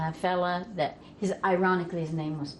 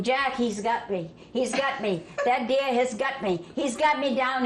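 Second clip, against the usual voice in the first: mock panicked scream; 5 semitones higher than usual. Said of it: "And he began to scream".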